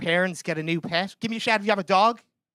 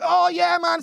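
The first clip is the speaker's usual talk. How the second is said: high, loud mock enthusiasm; eager reply; 10 semitones higher, 4 dB louder, slower than usual. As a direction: answer keenly with the pitch shooting up. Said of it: "And I was like".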